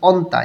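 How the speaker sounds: "অন্তা" with the nieun heard as n; pronunciation demo. Shown as a demonstration. Teacher explains nieun is pronounced here, demonstrating "অন্তা" with a clear n. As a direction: model "অন্তা", n sounded before the t. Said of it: "এখানে নিউন উচ্চারণ করতে হবে".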